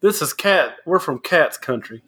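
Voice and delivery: mock country-boy impression; country accent. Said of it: "his James impression".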